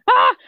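short mock-panicked "ah"; acted-out gasp of alarm; freaking-out gasp. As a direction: gasp as if retelling a fright. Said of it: "I was, like, freaking out".

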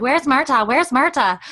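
high, loud singling-out of a question; hammed-up high-pitched nagging; mock repeated demand. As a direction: call it out high and loud, imitating an impatient viewer. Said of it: "you're like".

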